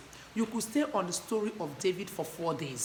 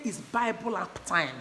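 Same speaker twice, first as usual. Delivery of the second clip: slow, leaning on the word Bible; stress on Bible; slower than usual. Shown as a demonstration. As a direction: make Bible the key word in "It's Bible app time". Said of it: "Emphasize on the word Bible".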